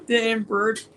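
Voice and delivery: hiccuping mid-word; words broken by a hiccup. Real, not acted. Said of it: "sorry, I got the hiccups".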